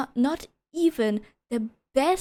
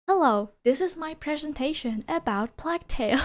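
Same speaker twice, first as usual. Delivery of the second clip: mock school presentation; 4 semitones higher than usual. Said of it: "sounds like this freaking essay to school".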